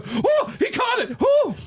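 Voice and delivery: rising, excited shout of joy; excited yell. Retold or imitated. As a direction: cheer as the catch lands. Retold reaction watching Rams game.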